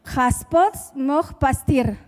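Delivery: Haspot moch pastir read slowly, each foreign syllable spelled out; foreign phrase. Shown as a demonstration. Preacher tests the congregation with an unknown tongue, slow and careful. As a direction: sound out Haspot moch pastir like an unfamiliar language. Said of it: "Alguien sabe lo que dije?".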